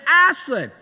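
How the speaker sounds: calling out. Retold or imitated. Parent calls out after the third call, calling out. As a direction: call out for a missing child. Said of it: "You, you call out".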